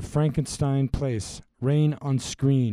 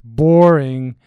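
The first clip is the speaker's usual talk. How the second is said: heckling shout; 11 dB louder than usual. Acted. Audience heckles the wedding scene.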